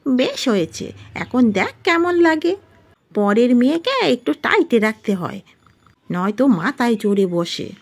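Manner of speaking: high, self-satisfied mother-in-law voice; gloating mother-in-law. Acted. Mother-in-law overhearing the couple quarrel, gloating.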